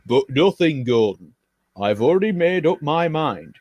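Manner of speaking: bossy railway controller. Acted. Controller tells Gordon he must pull the Kipper. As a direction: lay down the new orders.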